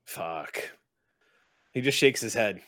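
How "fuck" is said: soft, breath-only swear; whispered curse. Acted. Driver reacts to passenger's school troubles, whispered curse.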